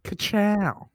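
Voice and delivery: soft quick ka-chow; Lightning McQueen catchphrase. Pretend. Owen Wilson leaving as Lightning McQueen, softly. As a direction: whisper the car's catchphrase as you zoom off. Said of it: "is Owen Wilson".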